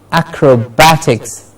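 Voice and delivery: "acrobatics" as ac-ro-BAT-iks; stress on BAT. Shown as a demonstration. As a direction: model "acrobatics", beat on "bat". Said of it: "Bat gets the stress".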